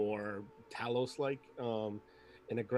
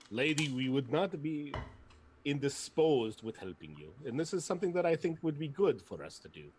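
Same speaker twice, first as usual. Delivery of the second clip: a lightly higher stiff formal speech; Zarg's formal voice; 4 semitones higher than usual. Acted. Zarg answers the lady in a stiff, lightly put-on formal voice. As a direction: answer the lady with clumsy courtesy.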